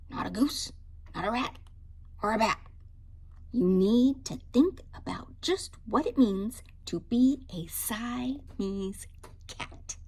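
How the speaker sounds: mother's lecture, each not a punched; lecturing mother. Acted. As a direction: list every animal she is not, sternly. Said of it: "said his mother".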